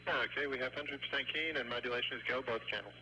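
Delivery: tinny voices over the loop; radio chatter. Real, not acted. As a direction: relay checks over the radio. Station radio checks.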